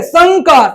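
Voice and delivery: संकार as "sangkaar"; ng before का in संकार; nasal ng sound. Shown as a demonstration. Teacher corrects the misreading, संकार with ng. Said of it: "नहीं तो और कुछ है".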